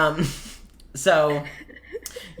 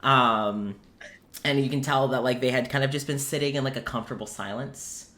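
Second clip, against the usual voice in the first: low, softened narration; game master scene-setting; 5 semitones lower, 4 dB quieter than usual. A narrator's reading. Game master describing the bakery to players, in subdued narration. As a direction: lay out the scene quietly for the players.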